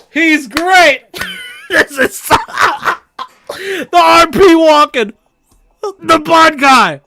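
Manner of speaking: high squealing hilarity, breaking into laughs; crying with laughter. Real, not acted. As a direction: gasp it out through helpless laughter. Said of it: "Oh, I'm crying".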